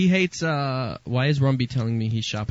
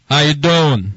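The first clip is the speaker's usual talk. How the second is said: loud phone greeting; 6 dB louder, slower than usual. Retold or imitated. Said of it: "you're woken up by".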